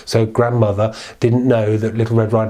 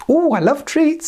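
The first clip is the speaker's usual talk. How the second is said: put-on old grandmother. The grandmother answers the knock, high and frail. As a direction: call out like a frail old lady.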